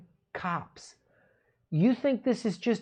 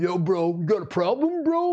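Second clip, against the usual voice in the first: louder bro-ish meathead taunt; dumb meathead; 5 dB louder than usual. Retold or imitated. Meathead at a bar squaring up, loud mock taunt. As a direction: play a bar meathead picking a fight. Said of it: "Like some dumb fucking meathead".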